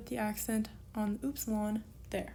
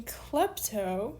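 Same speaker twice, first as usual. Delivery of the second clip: "klepto" slowly, with the first syllable accented; stress on first syllable. Shown as a demonstration. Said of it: "the first syllable is accented".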